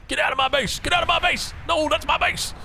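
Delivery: high-pitched, badly faked Swedish accent; mock Swedish accent. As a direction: put on a Swedish-German accent, yelping in mock protest. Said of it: "I know what a Swedish accent sounds like".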